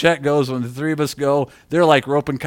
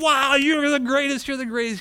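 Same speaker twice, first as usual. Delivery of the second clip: mock crowd cheer; 10 semitones higher than usual. Crowd to tightrope walker, mock cheering. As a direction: imitate a wowed crowd in a small high voice. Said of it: "and everyone's like".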